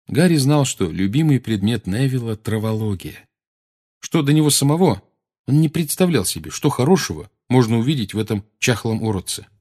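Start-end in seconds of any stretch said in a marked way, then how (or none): none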